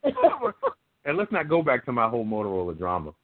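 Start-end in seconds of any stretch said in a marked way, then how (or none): 0.0-1.1 high, loud cry of frustration; exasperated outburst. Retold or imitated. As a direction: blurt it out in disbelief. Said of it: "I was like".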